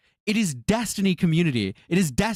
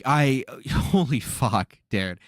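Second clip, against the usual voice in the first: disbelieving laugh; 2 semitones lower, much slower than usual. Real, not acted.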